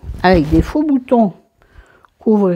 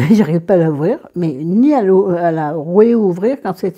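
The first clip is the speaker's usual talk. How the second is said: laughing. Real, not acted. Laughs at failing to open.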